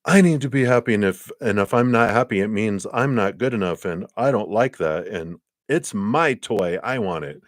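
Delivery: hammed-up tantrum of a spoiled inner child. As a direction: whine like a spoiled kid over a toy. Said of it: "a spoiled little inner child".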